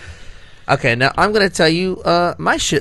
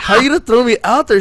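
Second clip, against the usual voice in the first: indignant; 9 semitones higher, 5 dB louder than usual. Retold or imitated. Retold indignant protest.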